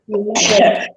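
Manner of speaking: tearful yeah through a sob; a wet, choked yeah; crying. Real, not acted. Mother recalling her sick son, crying. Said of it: "Don't make me cry".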